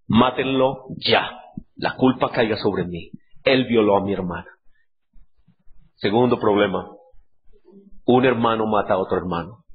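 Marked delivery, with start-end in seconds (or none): 0.1-4.5 cold order. Retold or imitated.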